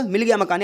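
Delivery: मिल गया said first with weight, falling on गया; eager news home with weight on मिल गया; stress on मिल गया. Shown as a demonstration. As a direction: announce it, leaning on मिल गया. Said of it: "मिल गया पर ज़्यादा जोर दे रहे हो".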